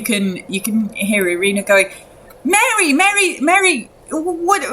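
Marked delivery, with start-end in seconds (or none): 2.4-4.6 taken aback. Acted. Acting man startled by Mary's arrival.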